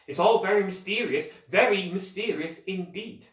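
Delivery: relishing mystery. A narrator's reading. Jack telling the Secret Seven, with relish. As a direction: savour the word mysterious.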